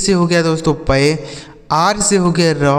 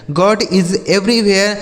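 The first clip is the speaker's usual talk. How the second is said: slow example reading; much slower than usual. Shown as a demonstration. Teacher repeats example sentence slowly.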